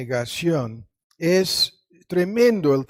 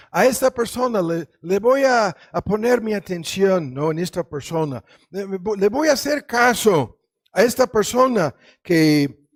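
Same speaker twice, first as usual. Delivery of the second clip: God speaking emphatically; 3 semitones higher, 4 dB louder than usual. Retold or imitated. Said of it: "dice Dios".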